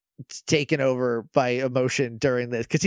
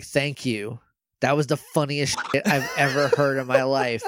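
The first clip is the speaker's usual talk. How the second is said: gloating laugh. Retold or imitated. Villain gloating over sad memory.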